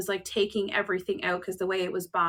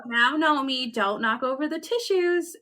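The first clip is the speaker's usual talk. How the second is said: daughter talking to gnome; 5 semitones higher than usual. Retold or imitated. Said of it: "she said".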